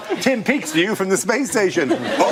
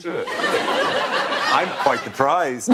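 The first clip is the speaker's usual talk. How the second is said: very slow, lower Southern belle drawl; a loosely faked Southern belle accent; attempted Southern belle accent; 5 semitones lower, much slower than usual. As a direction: play a coy Southern belle, badly. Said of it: "when you do that accent".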